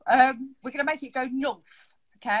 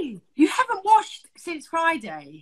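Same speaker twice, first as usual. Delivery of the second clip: 1 mock outrage; 5 semitones higher, slower than usual. Real, not acted. Shocked at friend's makeup.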